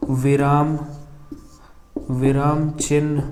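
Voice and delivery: slow, word by word with long pauses; slow dictation. Real, not acted. Teacher writing out the definition for students, slow dictation. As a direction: dictate as you write on the board.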